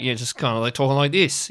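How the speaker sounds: clenched, broad Australian accent; instinctive Aussie accent. Shown as a demonstration. Aussie demonstrating the outback theory, clenched Australian accent. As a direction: slip into clenched-jaw Aussie talk. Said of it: "an Aussie person will instinctively".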